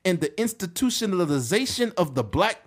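high-pitched mock orator; Doctor Umar. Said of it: "I listened to Doctor Umar call him".

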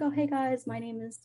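imitating a friendly greeting, voice lifted then dropping away; put-on friendliness. Roommate greeting the new arrivals, mock-friendly. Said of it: "she's not sweet, but she, like".

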